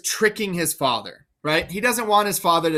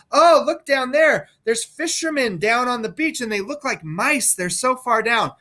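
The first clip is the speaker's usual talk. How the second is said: higher, excited pretend dizziness at the cliff edge; mock fear of heights; 5 semitones higher than usual. Edgar pretending to Gloucester they stand at the cliff edge, mock fearful. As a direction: ham up being scared of the drop. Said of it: "So he says".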